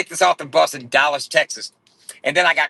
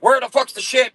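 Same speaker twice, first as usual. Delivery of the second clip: higher, louder imitated thug demand; mock angry demand; 11 semitones higher, 5 dB louder than usual. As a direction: bark the question like the gunmen did. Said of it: "they were like".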